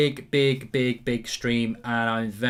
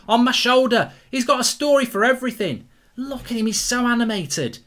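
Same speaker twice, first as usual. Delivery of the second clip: high, loud, gleeful mocking of a fan; giddy live fan-cam commentary; excited commentary; 9 semitones higher, 5 dB louder than usual. Real, not acted. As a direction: point him out with delighted glee.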